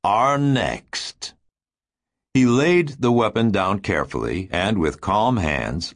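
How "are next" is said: Febbs to himself. A narrator's reading. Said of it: "Febbs said to himself".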